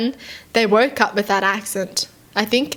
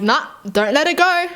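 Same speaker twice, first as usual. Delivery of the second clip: higher-pitched, egging-on objection; insistent hand's voice; 6 semitones higher than usual. Acted. Hand overruling the brain, insistent. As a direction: play a hand urging defiance. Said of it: "your hand is like".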